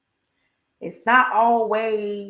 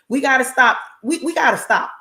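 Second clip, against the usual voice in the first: emphatic preaching; 3 semitones higher, 5 dB louder than usual. Real, not acted.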